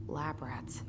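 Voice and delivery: whispering. Acted. Bitter memory of aunt's experiments.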